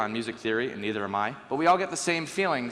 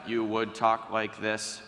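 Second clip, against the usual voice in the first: tone-deaf monotone; much slower than usual. Shown as a demonstration. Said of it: "If you were tone deaf".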